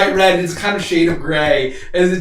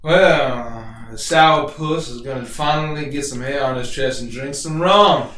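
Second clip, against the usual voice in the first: tavern onlooker; 4 semitones lower than usual. Acted. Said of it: "looks and he says".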